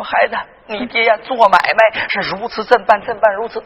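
low, softened mother's confession; tearful mother. Acted. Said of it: "我妈当时就哭了". (母亲低声缓缓诉说)

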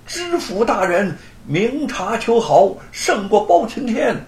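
crowd-pleasing loud acclaim; loud cry. A narrator's reading. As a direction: kneel and hail the magistrate aloud. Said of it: "大声地喊".

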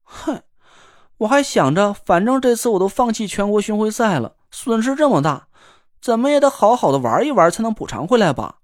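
sulky. Acted. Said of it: "好像挺不高兴的样子".

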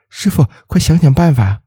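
high, urgent plea. A narrator's reading. Liu Chunlan begging the driver, urgent plea. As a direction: press him for a way out. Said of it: "急迫地说".

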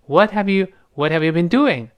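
"What have you been doing" linked, h of "have" almost gone; barely-there h. Shown as a demonstration. Teacher demonstrates the vanishing h in "What have you", linked. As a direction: run "What have you" together with hardly any h. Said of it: "似有似无".

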